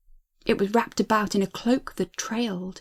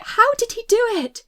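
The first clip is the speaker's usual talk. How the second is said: much higher, louder, frantic repeat; mounting panic; 11 semitones higher, 5 dB louder than usual. A narrator's reading. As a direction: push the question up into panic. Same thought, escalating.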